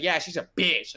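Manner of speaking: punchy retold exclamation; retold loud outburst. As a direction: mimic someone saying it too loudly on speakerphone. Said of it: "like, super loud".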